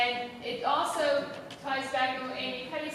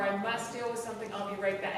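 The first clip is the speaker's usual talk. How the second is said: softer, polite phone voice; polite phone apology; 6 semitones lower, 4 dB quieter, faster than usual. Shown as a demonstration. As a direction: excuse yourself courteously on the phone.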